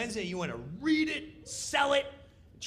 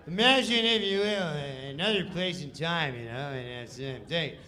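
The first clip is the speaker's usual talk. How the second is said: Norm's slack read; 4 dB louder than usual. Retold or imitated. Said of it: "Norm Macdonald".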